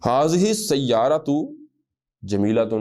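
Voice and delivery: ھذہ السیارۃ drawn out, ھذہ rising; slow reading. Shown as a demonstration. Teacher reading the Arabic sentence to students, slow. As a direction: read the Arabic clearly for copying. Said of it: "یہ statement ہے".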